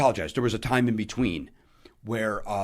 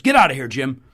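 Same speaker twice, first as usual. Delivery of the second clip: Rickles insult; 10 dB louder than usual. Retold or imitated. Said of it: "in that Don Rickles over the top".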